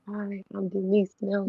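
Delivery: barely audible. Retold or imitated. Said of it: "I could barely really speak up loud".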